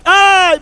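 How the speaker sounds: high mock yelp of pain; child's yelp. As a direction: squeal like a pinched kid. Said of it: "a criança chega a dar um grito".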